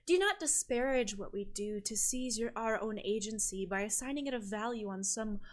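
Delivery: stately, rhetorical priestess rebuke; lofty island sister. Acted. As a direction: lecture the sorceress with grand, measured phrasing. GM plays island sister's speech.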